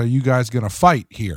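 ordinary delivery

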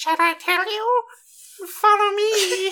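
put-on very high-pitched, weird baby voice. Retelling an anime scene, quoting a masked figure in the weirdest baby voice. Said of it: "in like the weirdest baby voice".

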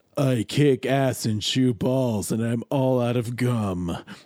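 put-on voice, dropped very low, slow pace. Comparing a put-on voice with their natural range, Duke Nukem voice. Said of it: "how I do my Duke Nukem voice".

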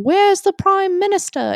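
very high, put-on British accent. Retelling something said while sleep-talking in college: British accent. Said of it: "in, like, a British accent".

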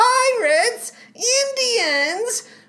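put-on very high, grating, annoying child voice. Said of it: "are these performances annoying".

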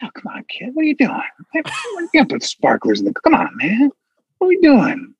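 put-on high, swooping old man voice. Imagining Joe Biden scolding kids over sparklers: imitating Joe Biden. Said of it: "I could see Joe Biden, Grandpa Biden, like".

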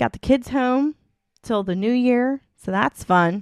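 heavy, plainly audible sarcasm. Parent telling listeners the kids are home till the new year: sarcastic. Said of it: "Any moms out there can hear the sarcasm in my voice".

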